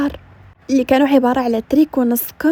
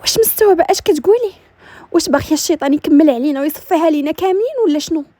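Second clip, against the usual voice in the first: lightly voiced agitated young schemer, starting higher; a touch of alarmed protest; indignant scheming daughter; 3 semitones higher than usual. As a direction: challenge the plan in mild disbelief. Voices Amania objecting to the plan.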